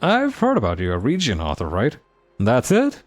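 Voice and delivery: lightly probing; fancy voice. Acted. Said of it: "a fancy voice".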